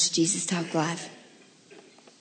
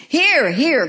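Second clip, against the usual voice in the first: louder, higher call for attention; eager cry; 8 semitones higher, 10 dB louder than usual. Acted. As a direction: call out as the eager brass vessel. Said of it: "cried the vessel".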